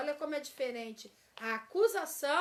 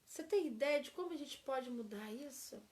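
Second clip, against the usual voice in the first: gentle question. Shown as a demonstration. Teacher contrasts with accusation, calm inviting tone. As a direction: ask it kindly, together. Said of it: "Olha como é diferente".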